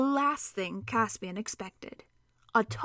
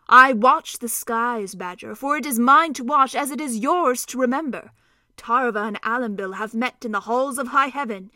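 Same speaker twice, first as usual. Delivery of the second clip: prophetic centaur; 6 dB louder than usual. Acted. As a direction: proclaim the hour like a seer. Glenstorm prophesies.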